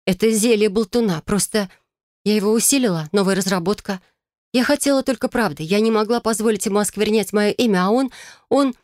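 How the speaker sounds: high, shaky, near tears; trembling voice. Acted. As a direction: voice trembling with feigned distress. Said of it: "Голос мой задрожал".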